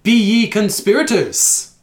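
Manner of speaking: high, loud Scottish dwarf; Scottish dwarf accent. Shown as a demonstration. Game master's dwarf challenging intruders, Scottish accent. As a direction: accuse them in broad mock-Scottish. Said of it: "Scottish accent for the dwarf".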